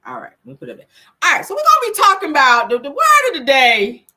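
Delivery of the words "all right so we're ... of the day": announcer voice. Pretend. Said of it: "let me get back into character".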